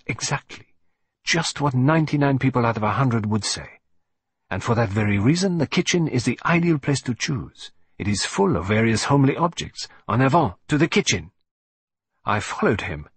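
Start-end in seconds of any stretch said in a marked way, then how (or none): 0.1-11.3 a hint of a smug Belgian detective; brisk and knowing, ending in a rallying cry; gently put-on French-accented triumph; Poirot, lightly voiced.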